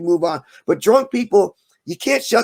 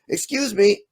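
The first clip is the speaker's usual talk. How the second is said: prim, overly courteous heckler; mildly voiced polite heckler; polite Mormon heckler; 2 semitones higher than usual. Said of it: "my impression of a Mormon heckler".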